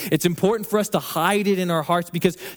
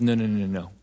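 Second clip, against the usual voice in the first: God answering; 8 semitones lower, 5 dB quieter than usual. Retold or imitated. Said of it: "He goes".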